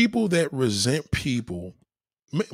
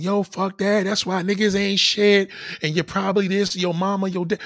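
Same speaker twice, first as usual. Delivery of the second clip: higher, louder mock tirade; mock girlfriend rant; 6 semitones higher, 4 dB louder than usual. Host imitating an angry girlfriend, higher and louder. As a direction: ham up a wild angry girlfriend. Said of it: "She would've came in there wilding".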